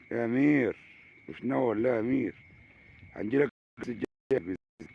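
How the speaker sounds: loud call to a friend far off. Real, not acted. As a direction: call out to Amir across the water. Calling out to Amir. (نداء بصوت عالٍ)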